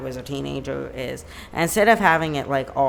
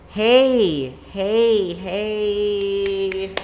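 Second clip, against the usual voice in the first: higher and louder, bright hello; excited greeting; 5 semitones higher, 6 dB louder, much slower than usual. Real, not acted. Vlogger returns after moving to greet her viewers, excited. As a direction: burst back in to greet viewers. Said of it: "greeting viewers back".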